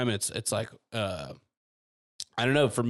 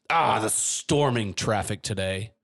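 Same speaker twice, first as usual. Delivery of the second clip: slow, drawn-out fake grumble; mock exasperated cursing; slower than usual. Host imitating Stormlight characters swearing at traffic, mock exasperation. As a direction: curse the traffic with a fantasy swear.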